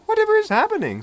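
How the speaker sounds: put-on a flustered old coach; fussy coach. A narrator's reading. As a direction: coach bumped by Philip, fussing. Coach voice high.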